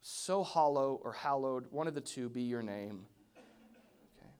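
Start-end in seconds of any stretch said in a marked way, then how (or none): 0.0-3.1 mock formal prayer. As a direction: intone it like a stuffy church prayer. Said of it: "do you only know prayer as".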